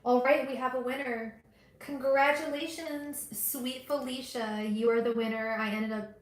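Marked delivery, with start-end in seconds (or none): 1.8-4.6 high, slow, beaming congratulations; excited congratulations. Real, not acted. Host announces the winner to Felicia, excited. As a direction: stretch it out to celebrate the winner.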